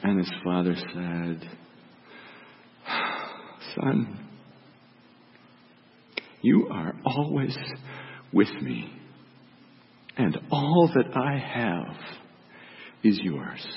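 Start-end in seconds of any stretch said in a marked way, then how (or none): 3.8-13.7 tender. Acted. Father gently pleads with son.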